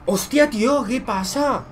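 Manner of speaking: loud, high disbelieving cry; shocked shout. Real, not acted. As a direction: yell out in shock. Reacting to the chance in the game.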